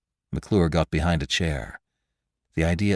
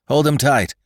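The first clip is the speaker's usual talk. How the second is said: higher, louder order; cried out; 8 semitones higher, 5 dB louder than usual. A narrator's reading. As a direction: call out urgently to the men. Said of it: "cried McClure".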